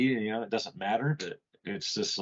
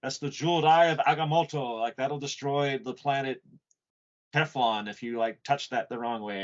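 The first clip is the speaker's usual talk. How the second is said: mock wizard warning; 3 semitones higher than usual. Acting the wizard guarding jewel.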